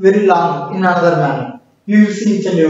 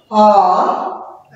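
"or" dragged up, then down; rise then fall. Shown as a demonstration. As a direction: let "or" climb and drop. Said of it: "it should go up and come down".

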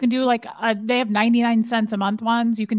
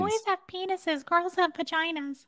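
quoting movie teacher; 8 semitones higher, 6 dB quieter than usual. Retold or imitated. Quoting Kindergarten Cop line.

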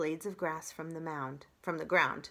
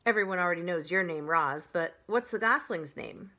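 lightly voiced goose, louder; goose character; 6 dB louder than usual. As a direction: push the goose's question out a bit louder. Story reader voices the goose.

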